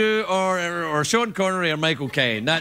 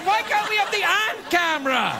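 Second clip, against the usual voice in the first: whiny complaint; 13 semitones higher than usual. Retold or imitated. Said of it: "I'm like".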